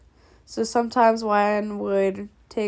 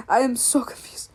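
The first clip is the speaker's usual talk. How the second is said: whispering. Real, not acted. Confused aside.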